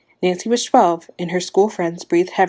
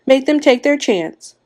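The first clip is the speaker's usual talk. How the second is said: high, louder, slow yelled demand; 7 semitones higher, 5 dB louder, slower than usual. A narrator's reading. Wife demanding that others share the risk, yelled. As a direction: draw out the demand at raised pitch. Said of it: "Missus Hutchinson yelled".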